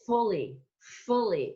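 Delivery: fully with a crisp F off the lip. Shown as a demonstration. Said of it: "That comes off the lip".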